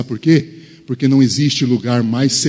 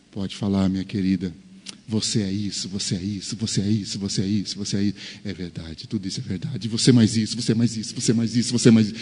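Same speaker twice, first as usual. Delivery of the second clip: soft and patient, letting her list his faults; husband softly inviting his wife to speak, patient and tender; 3 semitones lower, 5 dB quieter, faster than usual. Acted. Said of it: "olha pra ela e diz".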